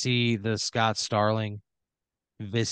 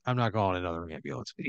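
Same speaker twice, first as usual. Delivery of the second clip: callous cop aside; 3 semitones lower, 5 dB quieter, faster than usual. Acted. Cop mutters to other cop.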